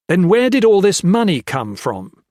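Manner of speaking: loud, high challenge; furious question. A narrator's reading. Gray furiously questions the money's source, loud and high. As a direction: hurl the question.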